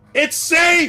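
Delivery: acted-out scream. Telling a story about a woman turning toward the desert, retelling a scream. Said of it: "and screams".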